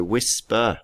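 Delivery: "whisper" broken into two beats; split into syllables. Shown as a demonstration. Teacher shows pupils the syllable break, "whisper" in two parts. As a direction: say "whisper" as whis, then per. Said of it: "break these words up into syllables".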